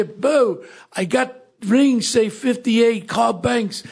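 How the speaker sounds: a hint of a Russian accent, broken English. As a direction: play the Russian gold guy on the phone in a Russian accent. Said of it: "he talks with a Russian accent".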